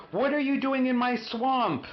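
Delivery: high, loud roaring bellow; bellowing ogre. A narrator's reading. Ogre bellowing at uninvited fairy tale guests, furious roar. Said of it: "he bellowed".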